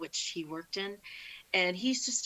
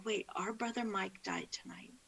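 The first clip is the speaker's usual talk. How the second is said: soft, stunned checking of bad news; subdued, breath-light disbelief; retold hushed disbelief; 2 semitones higher, 6 dB quieter than usual. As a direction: quietly repeat it as if unable to take it in. Retelling reaction to brother's death.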